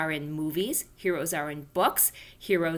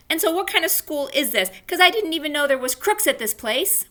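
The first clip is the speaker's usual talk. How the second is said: questioning; 9 semitones higher, 5 dB louder than usual. Acted. Junie indignant at the teacher.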